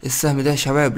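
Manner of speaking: ordinary talk, nothing marked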